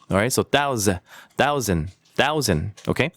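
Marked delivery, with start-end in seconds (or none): 0.4-1.0 "thousand" broken off at "thau-za"; Z sound. Shown as a demonstration. Teacher isolating the sound, Z sound. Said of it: "조금 Z 발음이 있어요". 1.3-2.7 "thousand" as "thau-zn", falling softly. Shown as a demonstration. Teacher modelling for repetition, soft Z. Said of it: "조금 Z 발음이 있어요".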